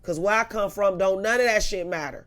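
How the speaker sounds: loud, heated street threat; angry threat. Retold or imitated. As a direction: warn him off, loud and fierce. Threatening Jason on the phone.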